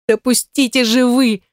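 high, slow plea through tears; tearful plea. A narrator's reading. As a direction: beg them to let you go, crying. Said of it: "произнесла я сквозь слёзы".

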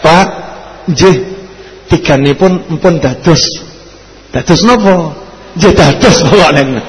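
a gentle hint of a respectful Javanese wife; polite krama wife. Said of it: "Coba kalau gini, misal ya". (istri sopan berbahasa krama, sedikit lebih rendah dan pelan)

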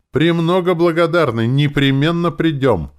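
gushing accept the invite; eager in unison. A narrator's reading. The elves eagerly accept the wedding invitation, high and loud. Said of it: "дружно ответили эти эльфы".

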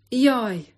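pained yelp. A narrator's reading. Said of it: "kapott combjához a pecér".

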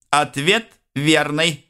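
joyful gurgling, slow. Acted. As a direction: gurgle it out happily. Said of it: "радостно пробулькала морда".

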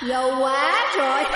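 very high, eerie spirit laugh; eerie cackle. A narrator's reading. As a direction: cackle like a possessing ghost. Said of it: "tiếng cười ghê rợn".

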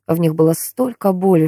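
plain reading voice

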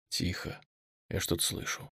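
hushed urgent whisper. Acted. Whispering to Nastya after hearing a noise in the corridor. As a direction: breathe it out, barely voiced.

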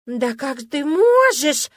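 высоко, громко и медленно, театрально; нарочно переиграй обиду; переигранное восклицание. Acted. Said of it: "воскликнула она, явно переигрывая". (театрально громкое восклицание)

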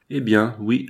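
terse, dry consent; curt dry tone. Acted. Associate accepting his partner's challenge, curt dry tone. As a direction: agree drily, without softening it. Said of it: "articula mon associé d'un ton sec".

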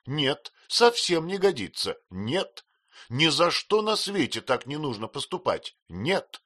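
high, loud, emphatic refusal; firm insistence. Acted. Maid firmly refuses her mistress, loud and insistent. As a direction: plant your feet and refuse.

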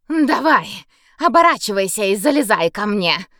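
shouting while spitting out water. Acted. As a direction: yell through a mouthful of river water. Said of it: "выкрикнула, отплёвываясь".

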